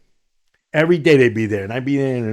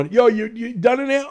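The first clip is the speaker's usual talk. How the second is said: a guard checking through the door, higher; calling through door; 11 semitones higher than usual. Retold or imitated. Guard knocking at bathroom door.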